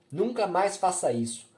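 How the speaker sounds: a mother screaming hysterically at her daughter; frantic yelling. A narrator's reading. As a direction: shriek it while shaking her. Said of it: "berrando, insana, tremendo".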